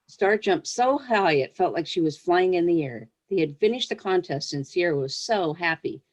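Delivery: gentle read-aloud storytelling voice; story reading. Acted. Author reading her pony story to young listeners, storyteller voice. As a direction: read it like a picture book to children.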